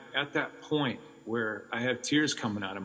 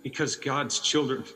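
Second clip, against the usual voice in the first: declaiming as Tim; 3 semitones higher than usual. Acted. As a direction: proclaim it like a rescuer defying Satan. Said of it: "as Tim said".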